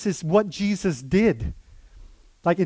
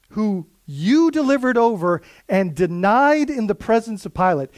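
accusing, louder reading of "Who you delivered over"; accusing stress; 3 semitones higher, 4 dB louder than usual. Shown as a demonstration. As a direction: point at the crowd on "you". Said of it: "he's pointing to the people".

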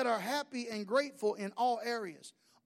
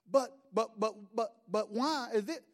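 put-on a light childish whine; pestering child. Child pestering daddy with why, lightly voiced. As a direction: nag like a curious kid. Child pressing father again.

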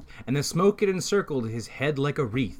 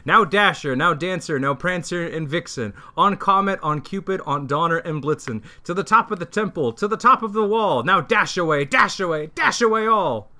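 louder, higher calls to the team; shouting to reindeer; 4 semitones higher, 3 dB louder than usual. Acted. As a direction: call each name across the sky. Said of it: "he whistled and shouted and called them by name".

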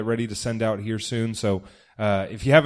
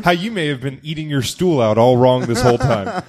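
laughing; 4 dB louder than usual. Real, not acted. Joking about stool headlines.

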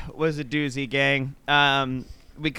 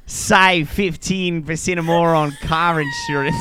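slow mock insurance-ad read; half-laughing car insurance pitch; hammed-up commercial announcer; slower than usual. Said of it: "a bunch of fucking voices".

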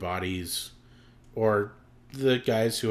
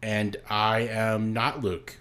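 deadpan monotone; much slower than usual. Pretend. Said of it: "you went monotone".

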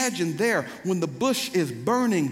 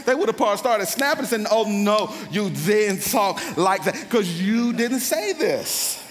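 higher, heated sermon storytelling; animated preaching; 5 semitones higher, 4 dB louder than usual. Real, not acted. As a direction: play up the shocked crowd for the congregation.

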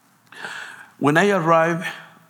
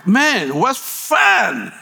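slow, higher and louder with relish; excited; 8 semitones higher, 4 dB louder, much slower than usual. Real, not acted. Recalling the wild driving test, slow and thrilled. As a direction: savour the thrill, drawn out.

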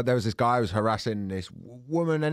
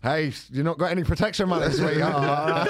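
lightly voiced creep demanding protection money, half laughing; a hint of a leering thug, said while laughing; creepy gangster; 4 semitones higher than usual. Joking friend playing a creep to the harassed woman, mild mock menace. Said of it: "I'm a different kind of creep".

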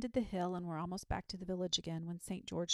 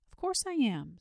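confident; 6 semitones higher, 9 dB louder than usual. A narrator's reading. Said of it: "said Saint George with confidence".

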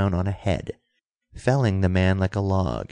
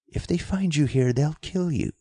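urgent cry; 7 semitones higher than usual. A narrator's reading. Girl warning Dick they will kill him, urgent cry. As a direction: warn with restrained urgency, pitch lifted. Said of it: "she cried".

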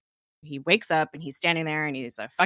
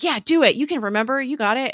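higher, louder urging; urgent encouragement; 7 semitones higher, 6 dB louder, faster than usual. Retold or imitated. Fitz urges Gemma to remember, urgent encouragement. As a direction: cheer them on, imitating an excited teammate. Acted urging in a retold scene.

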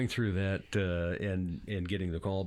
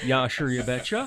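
put-on Minnesota accent; 2 semitones higher, 4 dB louder than usual. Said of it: "Minnesota mom accents".

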